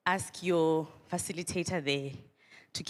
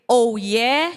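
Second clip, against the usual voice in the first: loud rising call; 4 semitones higher, 8 dB louder than usual. Shown as a demonstration. Speaker demonstrating the call to students, loud and rising. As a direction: throw it out to the crowd. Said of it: "So when I say".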